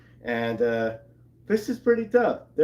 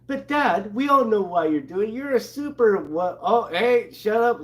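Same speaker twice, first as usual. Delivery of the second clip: blurting daughter; 7 semitones higher, 4 dB louder than usual. Retold or imitated. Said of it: "May kind of blurts out".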